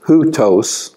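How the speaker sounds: Hutos said slowly as hoo-tohs, the diphthong held clear; careful pronunciation. Shown as a demonstration. Teacher models Hutos as hoo-tohs for the class. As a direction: sound out Hutos as hoo-tohs with a falling end. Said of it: "that's a diphthong".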